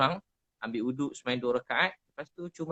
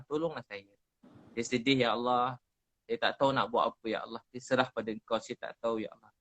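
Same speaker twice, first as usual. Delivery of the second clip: lightly acted sad plea to God; mock tearful prayer; 3 semitones lower than usual. Shown as a demonstration. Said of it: "Saya ulang-ulang cakap tu".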